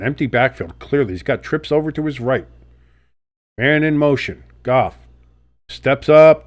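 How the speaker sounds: sportscaster calling the drive live, rising on the throw; play-by-play call. Acted. Streamer calling the Lions drive for viewers, play-by-play. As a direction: call it like a broadcaster, building to the catch.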